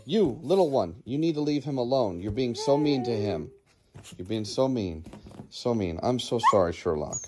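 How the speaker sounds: quiet consoling murmur. Real, not acted. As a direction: soothe the dog gently. Soft scolding of puppy, comforting dog.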